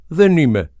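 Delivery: short loud high growl of denial. A narrator's reading. Boy snarls back at the man who calls him small. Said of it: "γρύλισε το παλιόπαιδο".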